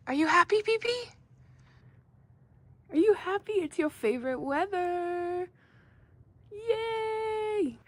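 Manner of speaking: put-on high, soft baby-talk voice; talking to a dog. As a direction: coo gently at the dog.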